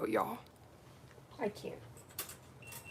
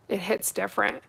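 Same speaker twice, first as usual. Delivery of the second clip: ordinary talk, nothing marked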